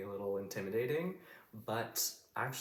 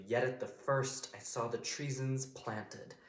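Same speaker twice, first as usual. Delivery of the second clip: higher, slow Shakespearean quote; acted verse line; 5 semitones higher, slower than usual. Shown as a demonstration. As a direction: recite it as the wronged queen, slowly.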